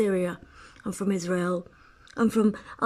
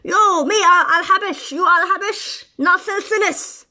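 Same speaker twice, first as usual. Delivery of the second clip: excited greeting; 9 semitones higher, 8 dB louder than usual. Retold or imitated. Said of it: "So you go in there and be like".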